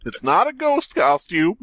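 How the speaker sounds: high dramatic dying Goofy; overacted death scene. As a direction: ham up dying last words. Continuing death voice.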